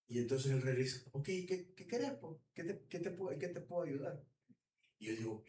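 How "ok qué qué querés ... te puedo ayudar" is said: high, soft, eager king offering help; an eager boss voiced high and soft; obliging king.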